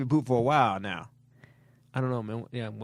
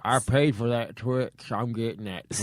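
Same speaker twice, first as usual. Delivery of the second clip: slow, slightly lowered character voice; imitated candy thief; 3 semitones lower than usual. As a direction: lightly voice a stubborn Twix buyer. Voicing the man wanting his Twix.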